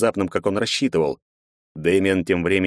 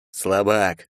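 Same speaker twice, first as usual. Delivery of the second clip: plain reading voice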